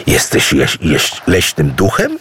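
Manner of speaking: stumbles over the word in amazement; stunned stutter, searching for the word; stammering astonishment. Acted. Idu, amazed, stammers at the jinn's secret. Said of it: "zdumiał się Idu".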